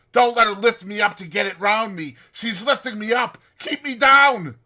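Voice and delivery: high, loud terrified screams; screaming. Retold or imitated. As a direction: shriek as the ghost comes at him. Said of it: "and screams out".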